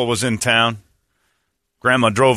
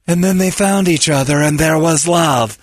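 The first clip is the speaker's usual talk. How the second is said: sappy sign voice; 4 semitones higher, 3 dB louder than usual. Acted. Mock sign slogan.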